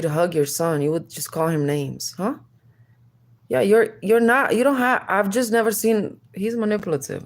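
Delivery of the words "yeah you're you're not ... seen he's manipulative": flustered outburst. Real, not acted.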